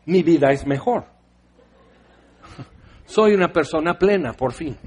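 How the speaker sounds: voz fingida de comprador feliz, con risa; consumidor encantado en burla. Pretend. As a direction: parodia al cliente satisfecho. (consumidor ridículamente pleno, riéndose)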